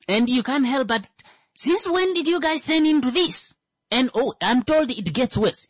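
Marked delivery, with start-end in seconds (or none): 1.6-3.6 high-pitched, incredulous question; incredulous challenge. Acted. Firstborn confronting the softened parents, incredulous. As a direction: challenge them in disbelief, pitch jumping up.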